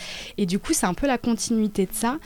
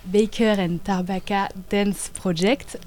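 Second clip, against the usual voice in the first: slow, careful English name in a French accent; slower than usual. Real, not acted. Dancer naming her company in English, French-accented English. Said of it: "désolée pour mon accent anglais magnifique".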